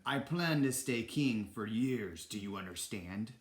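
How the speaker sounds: lightly voiced domineering king, slow start; a hint of pompous tyrant; Ratigan the king. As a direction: lay it down as a new ruler, dropping at the end. Villain proclaims himself king.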